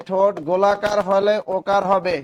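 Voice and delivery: ওকার হবে drawn out slowly and loudly; teacher slowly dictating the ওকার rule; slow dictated rule. Shown as a demonstration. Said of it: "কি লিখবেন".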